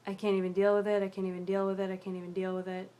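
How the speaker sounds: a hint of distraught rocking mantra; distraught repeating, fading out. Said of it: "I was, like, repeating myself".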